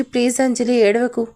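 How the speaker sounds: ordinary delivery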